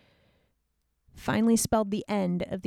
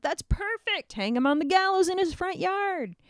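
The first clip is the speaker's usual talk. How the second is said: higher pitched grand decree; kingly verdict; 9 semitones higher than usual. Acted. The king orders Haman hanged, high and grand. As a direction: pronounce the sentence grandly. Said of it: "And Xerxes is like".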